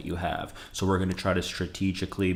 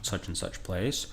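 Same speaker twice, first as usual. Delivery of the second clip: slowly spelled out, the question rising higher; slow model sentences; 3 semitones higher, slower than usual. Shown as a demonstration. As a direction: model both lines slowly, then lift the question. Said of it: "You could say".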